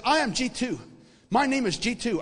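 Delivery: Indian shop owner. Retold or imitated. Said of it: "this little guy from India who owns the store".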